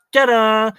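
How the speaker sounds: high, loud, slow showman's ta-da. Pretend. Streamer unveiling the big moment, high loud ta-da. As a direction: present it like a magic trick's finish. Mimicking a sudden dramatic reveal.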